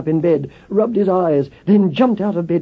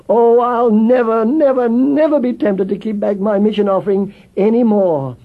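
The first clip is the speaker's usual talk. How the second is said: earnest promise; 5 semitones higher than usual. Acted. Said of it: "And he added".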